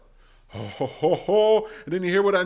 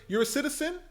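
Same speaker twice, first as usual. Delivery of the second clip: casual bro Yang; 3 semitones higher than usual. Retold or imitated. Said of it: "Andrew Yang is like".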